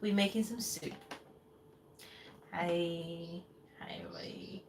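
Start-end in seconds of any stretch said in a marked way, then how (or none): 2.5-4.6 soft whispered greeting to the viewers; whispered hello. Real, not acted. Greeting viewers who just joined, whispered. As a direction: breathe the hello without voice.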